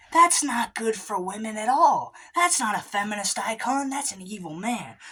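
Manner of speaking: high nasal know-it-all correcting the crowd; high nerdy objector. Acted. Ignorant dude voiced by comedian.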